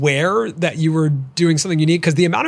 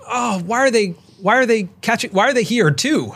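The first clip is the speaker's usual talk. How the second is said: higher, exasperated mock complaint; indignant mock whine; 7 semitones higher than usual. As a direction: whine like someone offended. Acting out indignation at copiers.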